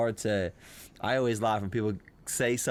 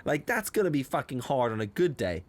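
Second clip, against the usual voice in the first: incredulous retort; 4 semitones higher, 3 dB louder than usual. Retold or imitated. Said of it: "I was like".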